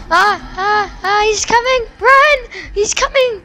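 high, loud frightened yelling; panicked screaming. Real, not acted. Kid panics as monster approaches.

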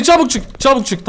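quick urgent cry; high urgent call. Real, not acted. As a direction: hurry yourself out. Urgent escape.

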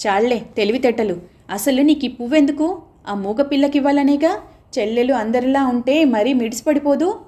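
mocking, scornful taunt at the boy; sarcastic. Savitri taunting Madhu about the flower, sarcastic. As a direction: sneer the words out. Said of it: "అంది వెటకారంగా సావిత్రి".

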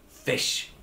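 breathy mock grumble; grumbled. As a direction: lobster grumbling at the fish, half-voiced. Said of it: "the lobster grumbled".

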